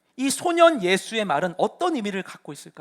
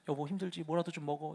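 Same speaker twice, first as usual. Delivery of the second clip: much softer, tender husband; imitating Joseph; 5 semitones lower, 14 dB quieter than usual. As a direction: gently coax a tired wife. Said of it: "요셉이 막 지쳐있는 아내 보면서". (지친 아내를 달래는 요셉, 부드럽게)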